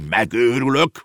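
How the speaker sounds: raging uncle yelling about the horse marrying; shouting. A narrator's reading. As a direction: yell it out in frustration. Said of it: "ordította".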